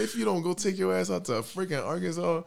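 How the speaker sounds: high-pitched exasperated order; mock scolding. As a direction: imitate a friend laying down the law. Friend scolds him, acted out.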